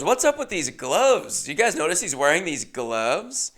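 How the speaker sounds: high teasing host voice; flirty host. Retold or imitated. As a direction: lay the innuendo on. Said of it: "She goes".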